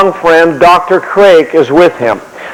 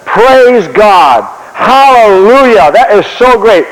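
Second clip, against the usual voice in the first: high, stretched-out hallelujah praise; acted burst of happy praise, pitch lifted; modern believer rejoicing; 4 semitones higher, much slower than usual. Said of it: "That's how modern people talk".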